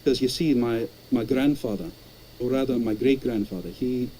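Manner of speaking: easy Edinburgh accent on every word; Edinburgh Scottish accent. Shown as a demonstration. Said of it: "what you're hearing right now is a third-hand impression".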